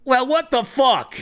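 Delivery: high, incredulous bouncer outburst; hammed-up disbelief; exasperated bouncer. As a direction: blurt it out baffled, pitch way up. Bouncer reacts to locked room.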